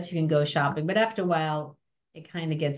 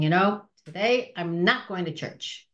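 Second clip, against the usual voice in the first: rebellious schoolgirl. Retold or imitated. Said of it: "trying to be rebellious with the school".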